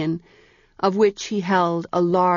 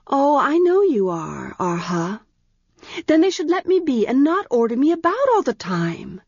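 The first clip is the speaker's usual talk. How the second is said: petulant protest; 8 semitones higher than usual. A narrator's reading. Arha protests to Penthi.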